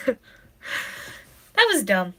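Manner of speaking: tearful, embarrassed laugh; crying and laughing at herself. Real, not acted. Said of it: "I don't know why I'm crying".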